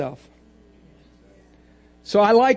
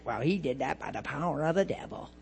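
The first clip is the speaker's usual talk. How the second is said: mock accusers; 7 semitones lower, 12 dB quieter than usual. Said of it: "They're like".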